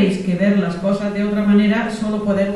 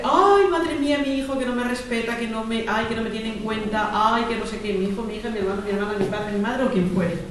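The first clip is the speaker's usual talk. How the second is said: mock complaining; 2 semitones higher than usual. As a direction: sigh out the grievances. Acts out complaining parent.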